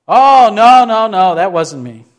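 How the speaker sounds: loud high start, dropping to normal; emphatic mock denial. Peter answering his accuser, hammed-up loud denial. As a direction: burst out protesting, then settle down. Voices Peter hastily denying it.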